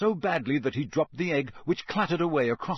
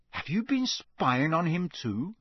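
higher, measured indignant question; 4 semitones higher than usual. Acted. Harry accuses ghost of spying, indignant. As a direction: ask it as an affronted accusation. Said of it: "said Harry indignantly".

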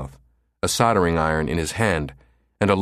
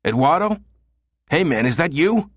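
nervous calling out; 9 semitones higher than usual. A narrator's reading. Grabbed from behind, calling friend.

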